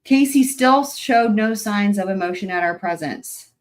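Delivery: reading the quote pointedly. Shown as a demonstration. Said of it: "I'm gonna quote it verbatim".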